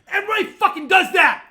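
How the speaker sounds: loud, heated rant building up; real angry shouting; worked up rant. Real, not acted. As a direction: get worked up and shout it at the room. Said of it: "I'm getting fucking worked up".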